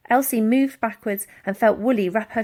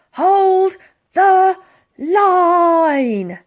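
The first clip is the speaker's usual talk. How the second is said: higher, louder, slow command; barked order; 9 semitones higher, 11 dB louder, much slower than usual. A narrator's reading. Barker ordering his men, shouted order. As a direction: hold the men firm.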